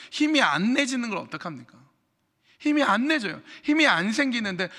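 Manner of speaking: exasperated outburst from the hurt one; frustrated protest. Acted. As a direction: cry out that you have no strength. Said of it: "나는 안 괜찮아서 힘들어하는데".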